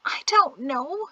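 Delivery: high, slow whine; whining. A narrator's reading. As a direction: whine like a sulky child. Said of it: "she whined".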